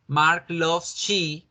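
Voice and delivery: "Mark loves she" very slow, marked wrong; slow demo of the error; slow wrong example. Shown as a demonstration. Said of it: "No decimos".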